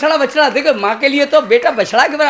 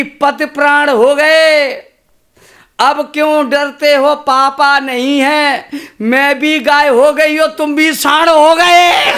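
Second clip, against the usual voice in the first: a touch louder, smiling and teasing, laughing at the end; smiling wife; 4 semitones higher, 4 dB louder, much slower than usual. Acted. Wife teasing her husband about the old fear, smiling. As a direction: tease him with a grin. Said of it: "मुस्कुरा के बोली".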